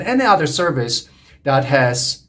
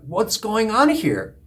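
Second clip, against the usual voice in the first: mild mock shock, pitched up; acted shock; 4 semitones higher than usual. Newcomer hearing group members swear, mildly acted shock. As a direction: lightly play taken-aback disbelief. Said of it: "you shocked initially".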